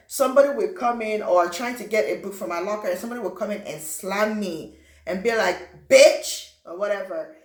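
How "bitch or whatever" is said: loud sneering insult shouted; a loud jeering shout; mock bully yell. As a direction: bark it like the bully slamming the locker. Retold bully slamming him.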